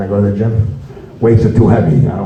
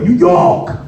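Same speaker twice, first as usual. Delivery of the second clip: excited shout; 12 semitones higher than usual. Retold or imitated. Guy yelling hometown cheer.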